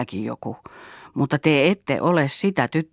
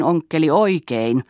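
mild exclamation; 3 semitones higher, 3 dB louder than usual. Acted. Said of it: "huudahti Yrjö".

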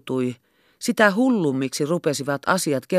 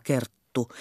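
softly hushed name; 7 dB quieter than usual. A narrator's reading. Captain hushing to Kerttu, secretive. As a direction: keep it down, just her name. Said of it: "alensi ääntänsä kuiskaukseksi".

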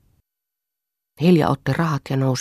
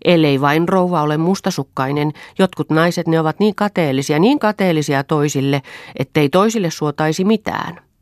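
a hint of a sly, higher maid's voice, raised; insinuating maid; 5 semitones higher, 5 dB louder than usual. A narrator's reading. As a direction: needle the jealous mistress.

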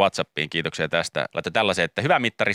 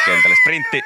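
mock shout; 6 dB louder than usual. Mimicking sprint-and-sub routine.

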